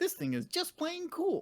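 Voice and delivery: bad, very high, sing-song voice swooping all over. Reading a quip from an auction listing: terrible Doug impression. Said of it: "Terrible Doug impression".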